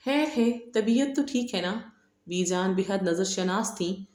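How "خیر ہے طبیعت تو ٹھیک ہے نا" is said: worried question. A narrator's reading. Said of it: "فکر مندی سے پوچھا".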